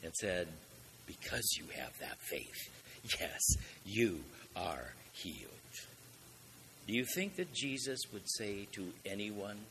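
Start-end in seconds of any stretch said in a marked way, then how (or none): 1.0-5.5 low, tender reassurance; gently voiced blessing; very loving. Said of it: "very lovingly".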